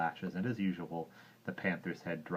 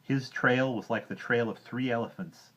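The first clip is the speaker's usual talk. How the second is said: put-on louder, higher boy voice; angry complaint; 3 semitones higher, 6 dB louder than usual. Mowgli complains about Hati, loud and heated. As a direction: keep scolding, heated.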